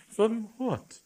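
cordial. A narrator's reading. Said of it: "said the bishop cordially".

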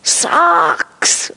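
put-on high, excited toddler shout; a small boy shows off his sock drawer, shouting; loudest voice. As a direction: shout it like a thrilled two-year-old. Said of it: "in the loudest voice".

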